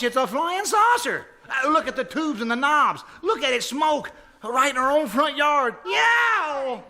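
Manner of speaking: man shouting as a saucer lands in his yard; excited shout. Acted. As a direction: yell at the smoking wreck.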